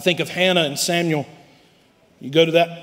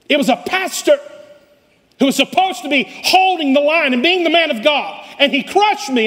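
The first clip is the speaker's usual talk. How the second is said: raised, aggrieved voice of a wounded churchgoer, building as the list goes on; hurt churchgoer; 6 semitones higher than usual. Retold or imitated. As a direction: plead your hurt to the preacher. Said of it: "You say".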